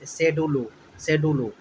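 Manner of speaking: "शेड्यूल" sounded out as say-DOO-loo; spelling pronunciation. Shown as a demonstration. Teacher helping students remember schedule, sounded-out pronunciation. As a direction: say "शेड्यूल" with plain s and extra final vowel. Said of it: "शेड्यूल में कैसे याद रखेंगे".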